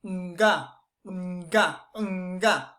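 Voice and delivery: short nasal nga bursts through the nose; nasal nga sounds. Shown as a demonstration. Teacher demonstrating nasal nga sounds. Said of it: "the air is going to sound like this".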